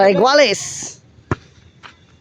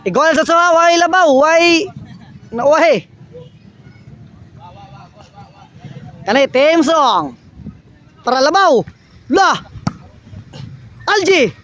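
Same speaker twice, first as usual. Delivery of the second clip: live play-by-play; 6 semitones higher than usual. Acted. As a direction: call the rally as it happens.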